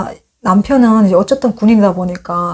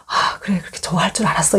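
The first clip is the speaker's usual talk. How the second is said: soft unvoiced aside to herself; whispered thought; 3 semitones lower, 6 dB quieter than usual. Wife thinking husband will be thrilled, whispering. Inner thought while announcing.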